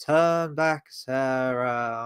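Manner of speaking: languid, dreamy, trailing away, name drawn out. Imitating how an actor delivered a film line; imitating dreamy, drifting-off delivery. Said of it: "this really dreamy drifting off".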